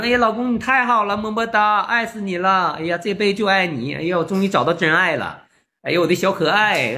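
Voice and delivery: lightly hammed-up cooing to an online sweetheart; mock lovey-dovey. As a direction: imitate a besotted girlfriend gushing. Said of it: "一天老肉麻了聊的".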